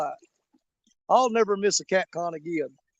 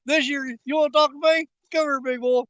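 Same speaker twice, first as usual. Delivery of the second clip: mock indignant; 5 semitones higher, 3 dB louder than usual. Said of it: "No, I'm kidding".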